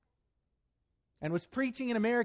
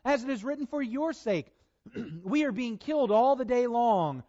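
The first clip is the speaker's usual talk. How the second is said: reading Romans aloud with mounting preacher's fervor; scripture reading. Acted. Preacher reading Romans to his church, rising conviction. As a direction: proclaim the verses to the congregation, building.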